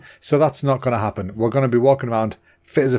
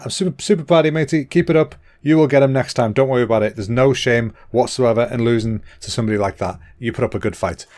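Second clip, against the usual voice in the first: talking while out of breath; slightly breathless and rushed. Real, not acted. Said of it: "oh God, I'm so out of breath".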